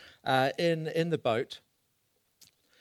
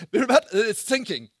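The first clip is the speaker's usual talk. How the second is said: laughing; 7 semitones higher, 7 dB louder than usual. Real, not acted. Laughing answer about sinking boat.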